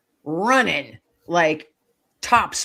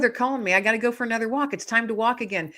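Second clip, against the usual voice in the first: higher-pitched, eager dog's voice, retold; super excited; 5 semitones higher, faster than usual. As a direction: voice a dog eager to be off. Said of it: "he's super excited".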